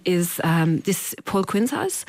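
attempted Austrian accent, hesitant; lightly imitated Austrian caller, slow at the end. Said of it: "I'm trying to do the accent now".

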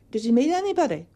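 imitating daughter. Daughter quizzing mother, acted.

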